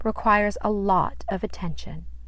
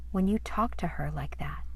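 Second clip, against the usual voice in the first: gentle whisper; 5 dB quieter than usual. Acted. Mommy asking gently.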